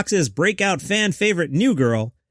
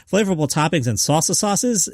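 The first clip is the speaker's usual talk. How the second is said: said fast; 2 semitones higher than usual. Shown as a demonstration. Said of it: "You try and say it fast".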